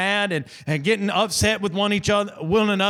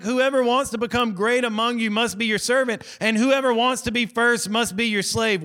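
a touch higher, repeating the verse in mock disbelief; mock dumbfounded disciples; 3 semitones higher than usual. Preacher voicing disciples stunned by Jesus' words, mock disbelief. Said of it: "they're dumbfounded now".

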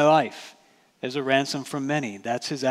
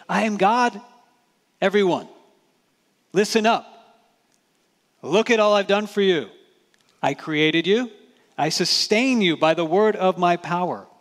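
higher, louder, imperious demand for thanks; demanding god; 5 semitones higher, 5 dB louder than usual. Retold or imitated. Preacher voices the God who demands service, imperious and loud. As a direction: boom it like a god calling in debts. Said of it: "He didn't say".

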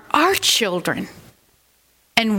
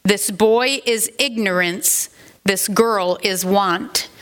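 unearthly voice. Acted. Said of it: "said the Spirit".

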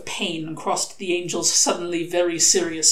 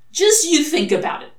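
higher and louder, pressing on; relentless; 11 semitones higher, 8 dB louder than usual. A narrator's reading. Demon pressing the angel to think: relentless. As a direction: push it without letting up. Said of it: "said Crowley relentlessly".

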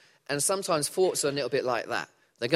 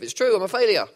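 mock inner critic; 6 semitones higher, 8 dB louder, faster than usual. Voicing the negative thought.

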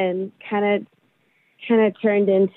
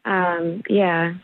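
hesitant, dropping low at the end; voice going down; 4 semitones lower than usual. Real, not acted. Woman asked if her date was cute, voice sinking. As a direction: let the pitch sink on a reluctant yeah. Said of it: "your voice went down at the end".

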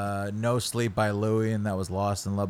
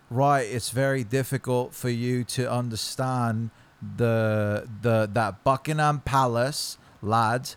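shaky attempt at an English accent; a botched English accent, mate; 3 semitones higher than usual. English accent tried on request for his friend. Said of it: "do you do it real quick".

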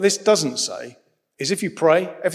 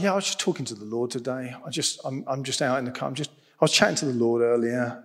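light, fast mock of a friend chatting; casual friend's chat; 2 semitones lower, 4 dB quieter, faster than usual. Imitating his friend telling how he talks to God, fast and casual. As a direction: rattle it off quickly like a friend who chats with God. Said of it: "this is how he talks".

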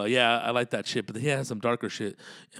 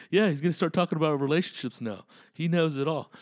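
announcer voice; 5 semitones higher, 3 dB louder than usual. Pretend. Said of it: "what's up with his fucking announcer voice".

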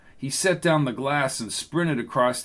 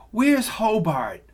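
much higher, slow worried call; an older woman looking around; anxious woman; 8 semitones higher, slower than usual. Acted.

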